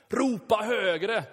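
3 goad them with a slow mocking call; 4 hammed-up prophet taunting the crowd; 1 mocking shout. Shown as a demonstration. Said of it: "repeats the taunt aloud".

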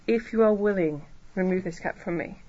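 measured, restrained request, settling at the end; calm, submissive prayer; humble plea. Retold or imitated. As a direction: ask meekly, without any demand. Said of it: "He's not talking like that. He's saying".

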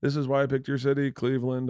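mock arena comic opener. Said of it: "as opposed to".

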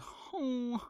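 high hoot, trailing away; high "ho" sound. Real, not acted. Podcaster shrugging off a setback, high hoot. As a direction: toss in a high-pitched "ho". Wordless high interjection between remarks.

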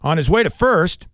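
brisk, polished sportscaster delivery; radio sports read. Acted. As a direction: read out the scores like a radio anchor. Reads radio sports update.

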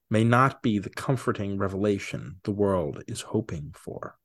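dramatic movie trailer narration; horror trailer voice. Acted. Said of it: "bust out those golden pipes".

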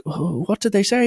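high, polite woman's voice; put-on polite mum; concerned mother. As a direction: ask it gently in a high voice. Mother replies to the angry man.

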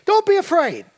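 lightly voiced divine command; paraphrased God. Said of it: "he says basically".

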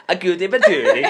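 high, loud giggly repeat; laughing. Retold or imitated. Repeating the phrase through laughter.

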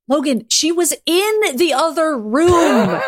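laughing exasperation. Acted.

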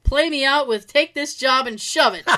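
light fake Southern accent. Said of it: "in a fake Southern accent".

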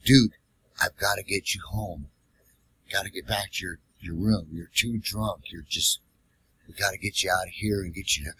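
soft coaxing. Retold or imitated. Cab driver softly coaxing a drunk passenger to go home. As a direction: coax a drunk like a kid.

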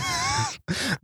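high, soft laugh; helpless high-pitched giggle. Real, not acted. Cracking up at the jar joke.

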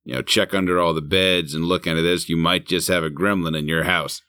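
a hint of a spooky narrator dad; movie dad voiceover. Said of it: "the dad doing the voiceovers".

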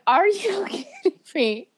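put-on a kid horrified at the news; incredulous. Retelling a shocked reaction.

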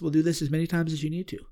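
calm reassurance, no hurry in the tone. Retold or imitated. The medicine's voice reassuring him, calm and patient. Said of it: "same tone, very calm".

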